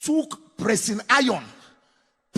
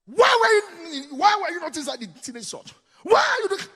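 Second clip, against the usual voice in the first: shouting father; 8 semitones higher than usual. Retold or imitated. Father shouting at his six-year-old boy outside church. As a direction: yell at the boy like an angry father. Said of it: "If you see the shouting".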